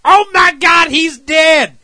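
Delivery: high mock-horrified shout; alarmed cry. Rangers drag Billy up and find him, alarmed shout. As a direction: cry out in hammed-up shock.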